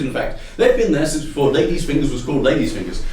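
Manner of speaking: ordinary talk, nothing marked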